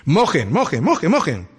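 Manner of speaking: gleefully mock the soaked altar; mocking laugh. Elijah mocking Baal's prophets, laughing taunt.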